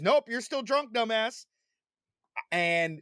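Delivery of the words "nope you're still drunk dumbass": self scolding. Retold or imitated. Scolding himself retold.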